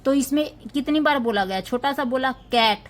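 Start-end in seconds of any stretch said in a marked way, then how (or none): 2.3-2.8 कैट said short in one go; one unbroken syllable. Shown as a demonstration. Teacher showing a one-syllable word, कैट in one beat. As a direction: say कैट as a single beat with no break. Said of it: "एक बार में खत्म हो गया".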